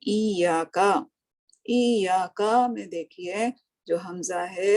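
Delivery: ई या का spoken slowly, each part separated; teacher pointing out ई या का; slow demonstration. Shown as a demonstration. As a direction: model ई या का slowly for the learner.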